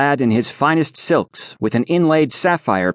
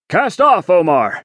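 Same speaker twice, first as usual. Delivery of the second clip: called out; 6 semitones higher than usual. Acted. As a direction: call out the order to your mate. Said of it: "he called".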